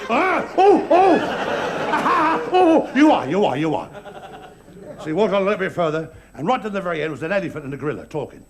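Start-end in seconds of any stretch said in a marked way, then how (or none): 0.1-3.9 laughing hyena. Acted. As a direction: cackle through the words, then settle to agree. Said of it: "laughing hyena".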